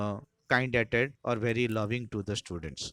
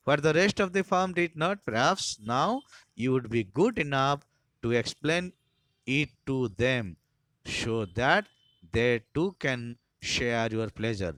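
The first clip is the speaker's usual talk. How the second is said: sarcastic demand; 2 semitones higher, much slower than usual. Acted. Harris ordering Taplow to explain, slow and mocking. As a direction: dare the boy to explain.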